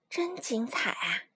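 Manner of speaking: slow, hushed whisper of amazement; awed whisper. Acted. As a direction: breathe it out like a spellbound spectator. Crowd admiring the circus act.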